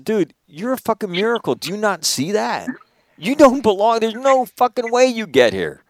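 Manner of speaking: high, fervent urging; impassioned. Retold or imitated. Telling the Burmese kid he's a miracle, high fervent urging. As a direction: make him see his own worth.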